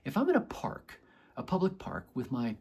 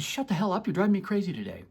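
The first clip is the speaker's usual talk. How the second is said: mock yelling; 6 semitones higher, 5 dB louder, faster than usual. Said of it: "You've been yelling at it".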